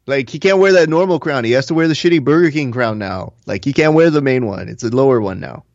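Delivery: lightly imitated friend's voice, pitched a little up; Octavio. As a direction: keep up a hint of the friend's impression. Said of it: "I'll say it in Octavio voice".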